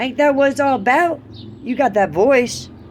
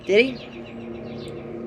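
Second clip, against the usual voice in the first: whispered aside; 8 dB quieter than usual. Real, not acted. Rhetorical aside in a rant.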